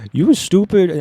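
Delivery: put-on high loud try at a Minnesotan accent; a failed Minnesotan accent attempt. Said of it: "I can't do a good, a good accent".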